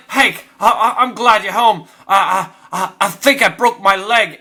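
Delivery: halting, stammering excuse; retold mumbling. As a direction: imitate someone fumbling for words. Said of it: "he starts to mumble".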